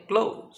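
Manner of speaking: ক্লোজ ending in a voiced z; ক্লোজ with a buzzed final sound; verb pronunciation. Shown as a demonstration. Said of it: "উচ্চারণ হবে".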